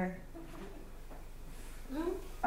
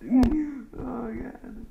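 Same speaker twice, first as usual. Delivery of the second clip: laughing exasperated; 7 semitones higher, much slower than usual. Real, not acted.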